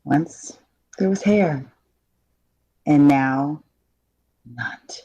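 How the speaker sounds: halting read with long pauses; halting line read. Acted. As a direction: fade the last word out. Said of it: "I thought that was believable".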